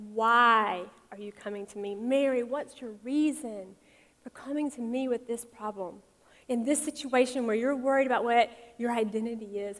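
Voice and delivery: gentle, unhurried question; very loving. Acted. Jesus to his mother Mary at the wedding, very lovingly. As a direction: ask it tenderly, drawing out the first words. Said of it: "Jesus probably very lovingly said".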